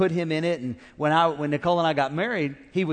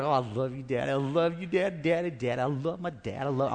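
sweet daughter voice; 4 semitones lower, 4 dB quieter than usual. Retold or imitated. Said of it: "She's like".

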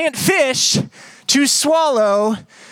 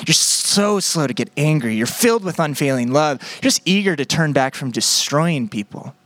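grimaced, grudging list of praise, a bit lower; resentful mock praise, jaw tight; through gritted teeth; 7 semitones lower than usual. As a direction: keep grinding the compliments out through your teeth. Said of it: "grimacing this, this phrase through his teeth".

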